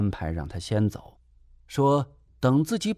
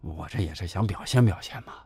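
usual speaking voice

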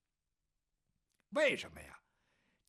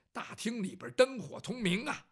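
usual speaking voice

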